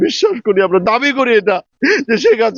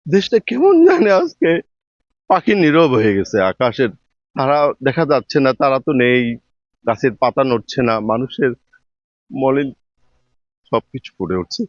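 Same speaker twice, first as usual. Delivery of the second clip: snotty crying; 9 semitones lower than usual. Real, not acted. Grieving leader's sudden death.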